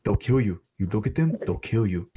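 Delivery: imitating a dead-serious warning; really serious. Local warning visitors about Night Marchers, imitated seriousness. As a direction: retell it gravely, as a solemn warning. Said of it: "gets really serious".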